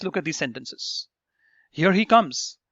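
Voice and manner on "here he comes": louder, excited exclamation. Shown as a demonstration. Teacher acting out someone spotting a celebrity, excited. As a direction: call it out with mild excitement. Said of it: "she's very excited".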